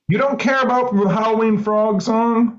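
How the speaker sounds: playful, high, wounded question; teasing pout; mock hurt. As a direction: pretend to be offended. Mock offended at friend.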